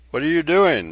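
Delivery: high, loud, alarmed demand. A narrator's reading. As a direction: demand it sharply, pitch jumping up. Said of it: "Mapui demanded".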